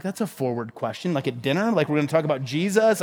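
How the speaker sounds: low, hushed retold disbelief; quiet mock-uneasy aside; taken aback. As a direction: question it under your breath, taken aback. Retells taken-aback reaction at dinner.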